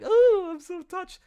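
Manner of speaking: loud, high, drawn-out gushing; hammed-up, over-the-top touched reaction; mock gushing glee. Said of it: "not like a crazy".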